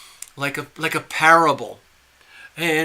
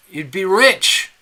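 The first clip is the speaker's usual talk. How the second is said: slow, loud, higher climax; excited pitch; 4 semitones higher, 8 dB louder, slower than usual. Acted. Stranger tempting fisherman with wealth, excited. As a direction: sell the dream, drawn out and emphatic.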